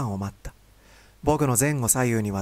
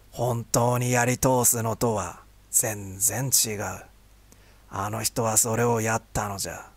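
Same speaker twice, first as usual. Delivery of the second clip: put-on slow, lowered old man lecturing. Old vendor scolds gently.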